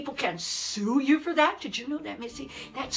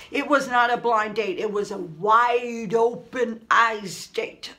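louder, slow punchline on "wide open eyes date"; calling out the royal bride's real motive, slow and pointed; sarcastic correction; 5 dB louder, slower than usual. Shown as a demonstration. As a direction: land the correction slowly and loud. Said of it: "that's how I call it".

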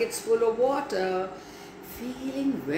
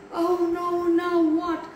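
dismayed; 7 semitones higher than usual. Acted. Max realises the spell fails.

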